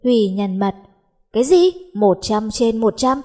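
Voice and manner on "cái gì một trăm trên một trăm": surprised outburst. Acted. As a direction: blurt it out in disbelief. Shocked exclamation. (bật thốt lên ngạc nhiên)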